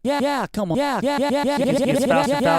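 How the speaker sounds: repeats speeding up into a rapid chop; stutter effect. Shown as a demonstration. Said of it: "mod one is the division".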